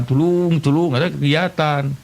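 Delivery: mock cry for help. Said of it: "bari gogorowokan".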